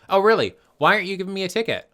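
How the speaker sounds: high, loud, fast mocking challenge; sarcastic taunt. Teen passenger taunting the cop, fast high sarcasm. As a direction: dare him, quick and scornful.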